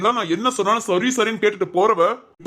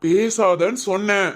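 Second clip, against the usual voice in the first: stern slow order; slower than usual. Acted. Husband silencing wife in quarrel.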